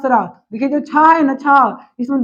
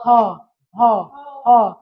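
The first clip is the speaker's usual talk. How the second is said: breathy h demo; 3 semitones lower, much slower than usual. Shown as a demonstration. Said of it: "ह का उच्चारण होता है ओठ से".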